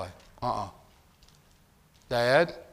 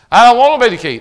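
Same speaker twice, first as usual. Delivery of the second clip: a hint of a whiny father, higher and louder; mock reluctant dad; 9 semitones higher, 16 dB louder, faster than usual. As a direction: mimic a dad dodging the job. Mocking the dad's protest.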